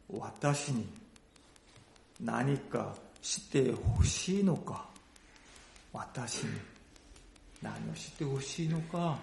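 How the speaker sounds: gentle question. Acted. Jesus gently asking the blind beggar, soft and kind. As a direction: ask tenderly, inviting an answer.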